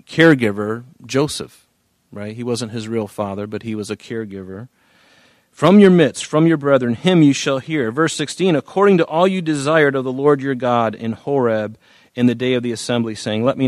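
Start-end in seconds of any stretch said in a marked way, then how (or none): 5.5-13.7 scripture reading. Acted. Pastor rereading the prophecy to congregation, emphatic scripture reading. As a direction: proclaim the verse, then ease down.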